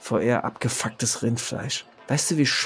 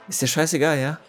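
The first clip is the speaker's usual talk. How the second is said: gereizt; 4 semitones higher, faster than usual. Acted. Gereizte, ungläubige Rückfrage.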